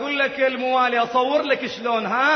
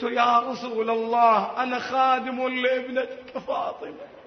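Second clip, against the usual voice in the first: emotional plea. Retold or imitated. Servant's plea to the Prophet, retold.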